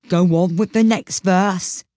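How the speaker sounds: mildly impatient repeat; mild impatience. Acted. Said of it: "the Gryphon repeated impatiently".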